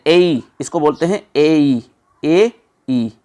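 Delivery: ए ई glided slowly from "e" into "i"; diphthong demo. Shown as a demonstration. Teacher to students, sounding out the diphthong slowly. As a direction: slowly slide ए into ई as one diphthong. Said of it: "ये diphthong है".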